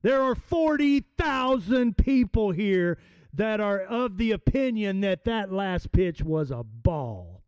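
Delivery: a hint of a big slugger pleading his case; Babe Ruth arguing. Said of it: "in essence what he said was".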